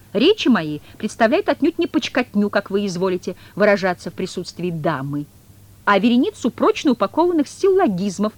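high, loud, pompous cat lecturing on logic; cat's pompous voice. Acted. The cat lecturing Woland over chess, pompous. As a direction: puff up like a learned cat.

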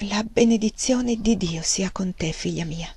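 soft, solemn fatherly blessing, fading away. Acted. Father blessing his daughter, soft solemn benediction. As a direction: bless her gravely and gently. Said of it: "enunciò in modo solenne".

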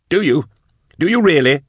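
high, loud, angry challenge; yelling. A narrator's reading. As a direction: yell the doubt at him. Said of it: "yelled Drusha".

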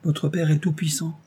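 put-on meek young woman's reply; gentle resignation. A narrator's reading. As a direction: answer gently, already resigned. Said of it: "avec la douceur de la résignation".

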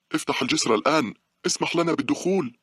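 stern, high-pitched yell; angry shout. A narrator's reading. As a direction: shout a furious order at the guard. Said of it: "علامات الغضب والصرامة. صاحت به".

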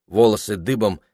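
plain reading voice

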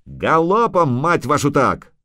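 high, rough-tempered rallying shout; yelling. A narrator's reading. Dwarf cursing his lads onward, yelling. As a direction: yell them onward, starting high. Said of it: "завопил Ярпан Зигрин".

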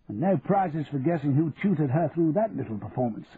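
lightly voiced genial aristocrat; a touch of self-satisfied banter; upper-class Percy, pleased. Percy joking as he applauds Becky's degree, lightly pleased.

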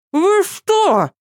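high indignant yelp. A narrator's reading. Asya protesting with her mouth full, indignant. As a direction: protest in outrage. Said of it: "возмутилась Ася с набитым ртом".

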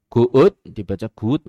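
guut said as written, long oo; reading guut letter by letter like it looks; spelling-style pronunciation. Shown as a demonstration. Teacher mocking how guut is spelt. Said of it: "dibaca ngoten niku".

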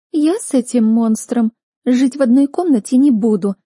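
squealing indignant refusal; shrieking protest. A narrator's reading. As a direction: shriek it out in disgust. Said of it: "взвизгнула Хлоя".

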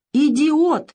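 scared woman shouting into the phone; frightened shout. A narrator's reading. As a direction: scream the insult in panic. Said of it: "испуганно закричала Лариса".

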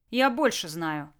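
slow, firm cut-off; curt retort. Acted. Dictator cutting off his gloating rival, curtly. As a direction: shut the argument down. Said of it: "отрезал Толян".

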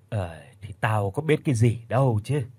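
lightly voiced old mother, shrugging it off; a hint of an old woman saying "tao có biết cái gì đâu"; mild, offhand old mother brushing off blame; grumbling old mother.

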